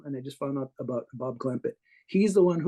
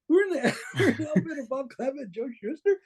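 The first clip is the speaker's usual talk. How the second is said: mock amazed; 11 semitones higher than usual. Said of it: "We're like".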